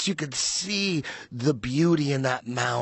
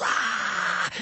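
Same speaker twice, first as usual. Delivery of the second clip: crowd scream. Retold or imitated. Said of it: "Everyone was".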